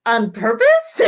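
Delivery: incredulous sister through a laugh; amused disbelief. Retold or imitated. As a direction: imitate a sister cracking up as she asks. Gina asks while all are laughing.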